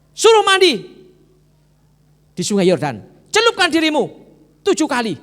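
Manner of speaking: loud high commanding shout; commanding call. Acted. Servant shouting the prophet's order to Naaman. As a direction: call out the order across the door.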